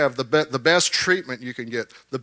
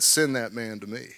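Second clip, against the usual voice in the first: calm prophet; 5 semitones lower, 6 dB quieter than usual. Retold or imitated. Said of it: "he said".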